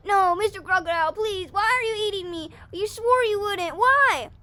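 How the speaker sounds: high, loud, anguished wail; screaming bunny. Acted. Bunny being eaten by the crocodile, screaming in protest. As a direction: scream out the betrayed plea. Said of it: "the bunny is screaming".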